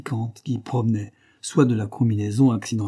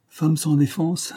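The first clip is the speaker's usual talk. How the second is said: high, slow, drawn-out "Femme sans défense"; amused, lingering repeat of "Femme sans défense"; mocking echo; 7 semitones higher, slower than usual. A narrator's reading. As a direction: savour "Femme sans défense" ironically, slowly and higher. Amused Parr echoes the phrase ironically.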